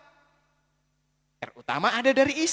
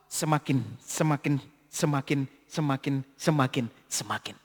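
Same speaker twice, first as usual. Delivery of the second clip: low, dropping softer each time; fading repetition; 9 semitones lower, 6 dB quieter than usual. Acted. Preacher trailing off before the congregation, fading. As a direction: let semakin die away. Repeated word fading away.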